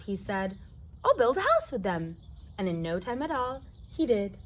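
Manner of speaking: put-on lively read-aloud for kids; reading to children. A narrator's reading. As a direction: tell the story to a circle of children. Reads picture book to children.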